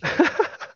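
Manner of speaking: high, brief laugh; real amused laughter. Real, not acted. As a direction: laugh at the joke. Laughing at a Burger King joke.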